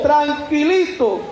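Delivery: tranquilito stretched out slowly and mockingly; mocking drawl. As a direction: sneer at his easy calm. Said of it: "Con todo".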